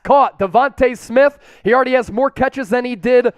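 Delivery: play-by-play calling the drive; live play-by-play. Real, not acted. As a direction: call each step of the play as it happens.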